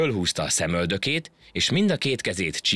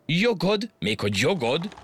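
high, rising incredulous questions; astonished; 11 semitones higher than usual. A narrator's reading. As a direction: scoff in sheer disbelief, pitched way up. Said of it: "elképedésében". (elképedve, magas hangon)

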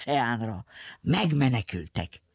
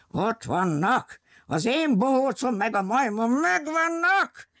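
lightly voiced excited villain; 7 semitones higher than usual. Villain spots runaways, shouting.

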